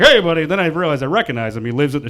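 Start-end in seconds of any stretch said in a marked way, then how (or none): 0.0-0.4 louder, moderately raised greeting; acted grown-up hello to a kid; adult reply. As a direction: answer a child as the adult. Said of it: "I'm like".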